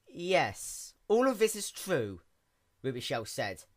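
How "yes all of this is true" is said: a hint of an eager, higher young pony; quick, bright-eyed little mechanic pony; lightly voiced sea pony. A narrator's reading. Sea pony introduces herself to the princess in a lightly raised voice.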